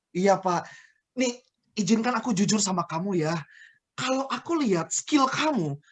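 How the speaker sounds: measured, sincere one-to-one feedback; tactful manager. Acted. Manager talking honestly with employee Rahel about lateness, tactful and encouraging. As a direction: ease gently into honest coaching. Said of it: "akan berbeda ketika si manajer ngomong sama si orang".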